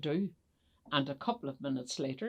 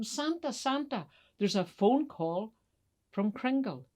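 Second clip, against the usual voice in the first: higher-pitched call to someone away; 4 semitones higher than usual. Acted. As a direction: call him to the phone. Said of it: "Missus Claus called him".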